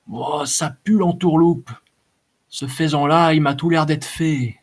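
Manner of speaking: a hint of a weaselly brigand grumbling; muttered warning. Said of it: "en marmonnant". (petit truand sournois, voix plus aiguë, marmonné)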